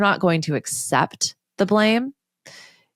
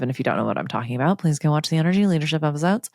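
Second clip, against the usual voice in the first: throwaway plug; much faster than usual. Real, not acted. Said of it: "I say it in that voice".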